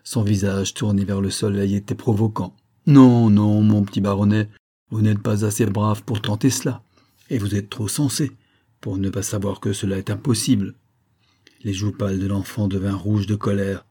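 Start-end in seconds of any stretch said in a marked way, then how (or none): 2.9-10.7 mocking laugh. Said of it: "Le major riait".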